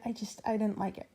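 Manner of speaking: breathless and hiccuping; out of breath. Real, not acted. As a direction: talk between hiccups, short of air. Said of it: "I'm, like, horribly out of breath and I'm hiccuping now".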